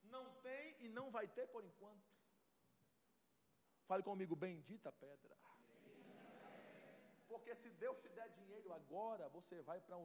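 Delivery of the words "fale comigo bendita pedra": almost murmured prayer; soft refrain. Acted. Preacher to congregation, hushed refrain.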